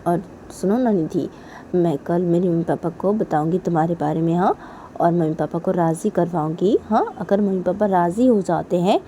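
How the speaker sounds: soft, earnest persuasion; reassuring promise. Acted. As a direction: calmly reassure an upset partner. Coaxing partner with a promise.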